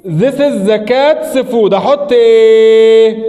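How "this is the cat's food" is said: very slow drawn-out teacher model; slow model sentence. Shown as a demonstration. Teacher modelling the example slowly. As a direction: read it word by word. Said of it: "اقولها ازاي؟".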